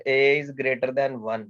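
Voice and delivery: very slow, word by word; slow dictation. Shown as a demonstration. Teacher to students, slow careful dictation. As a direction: read it out slowly for the class to follow. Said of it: "teacher reads out condition slowly".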